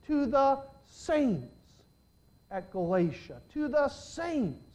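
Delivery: slow, high "To the saints" repeated; stressed saints. Real, not acted. Preacher lists the letters' addressees, slow rising emphasis. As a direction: lay out each address slowly.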